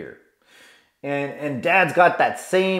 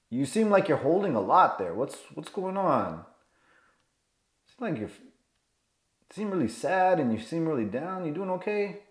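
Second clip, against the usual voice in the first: compassionate; 3 semitones higher, 6 dB quieter than usual. Acted. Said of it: "is through compassion and switching up".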